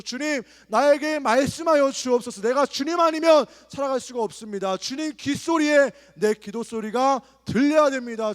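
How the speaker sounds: loud, high, fervent pleading; crying out in prayer. Shown as a demonstration. Preacher models loud, crying prayer for the youth at retreat. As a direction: shout the plea to God with full heart. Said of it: "마음껏 부르짖기 소망합니다".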